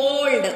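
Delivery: put-on "old" blended as one sound; pronounced together. Shown as a demonstration. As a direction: say "old" as a single joined word ending. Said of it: "Old is pronounced together". ("old" ని కలిపి ఒకే శబ్దంగా పలకడం)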